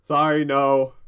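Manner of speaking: loud, blunt refusal. Acted. Gnome door flatly refusing Virgil, loud and blunt. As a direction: slam the answer shut.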